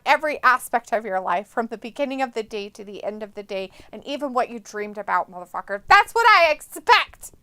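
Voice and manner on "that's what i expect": higher, louder mock demand; hammed-up bossy shout. Streamer playfully scolds a viewer, mock bossy. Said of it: "how dareth you".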